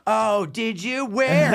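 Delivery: high, eager mock surprise; comic surprised by a kid's answer. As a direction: perk up, startled and curious. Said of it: "I go".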